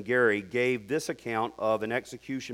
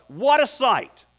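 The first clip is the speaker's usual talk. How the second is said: amazed exclamation; 9 semitones higher, 5 dB louder than usual. A narrator's reading. Narrating the condemned men's faces.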